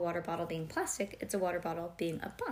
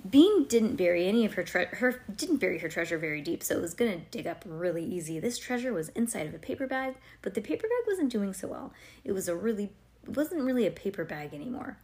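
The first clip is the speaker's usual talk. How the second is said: story narration; 4 dB louder than usual. Acted. Reads story aloud to child.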